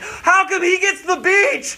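high, slow whiny protest; jealous complaint. Retold or imitated. Man in prayer line envies the beach, high whiny complaint. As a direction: whine it like a jealous kid.

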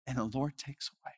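put-on soft, hushed quote in a light German accent; a touch of German accent, quiet and reverent. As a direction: quote the widow gently with a hint of German. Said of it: "in her thick accent".

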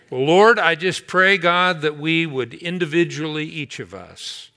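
earnest pastoral prayer, swelling then hushed. Acted. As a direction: pray over the congregation, pleading then tender. Closing prayer over music.

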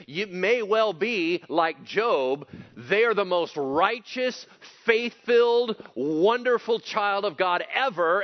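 loud, high fired-up preaching; fired-up preacher raising the voice; preaching full force. Real, not acted. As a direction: preach it hard to the room.

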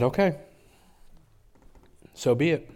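surrendering cry. Real, not acted. Surrender to God, climax.

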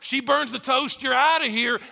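a hint of a careless husband brushing her off; dismissive rabbi. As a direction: toss it off like you don't care. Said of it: "one rabbi's like".

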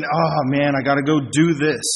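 grudging, dragged-out mock grumble; mock reluctance. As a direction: act out someone dragging their feet. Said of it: "dragging our feet, saying".

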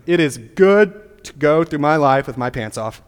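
mock proud declaration. Preacher mocking a sinner proudly affirming sin, slow.

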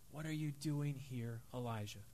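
soft, hushed voice of God; whisper. A narrator's reading. God whispering to Elijah in the cave, hushed. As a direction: hush it, barely above a breath. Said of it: "a voice said to him in a whisper".

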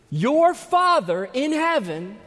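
Father lifted high and loud; stress on Father. Shown as a demonstration. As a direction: lean hard on the word Father. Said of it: "It helps to stress the word Father".

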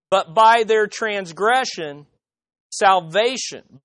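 slow, weighty reading with a long pause before "salvation."; slow deliberate reading. Shown as a demonstration. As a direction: lay each word down slowly, "By their transgression" then wait. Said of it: "notice how the Net Bible says it".

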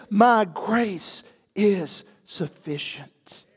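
slow, solemn divine answer; voice of God. Retold or imitated. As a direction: let God speak slowly. God's answer, slow and set apart.

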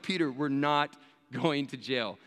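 slow, level, steadying reply; measured and unfazed, acted out; calm reassurance. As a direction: talk a panicking friend down. Calm reply to panicked friend.

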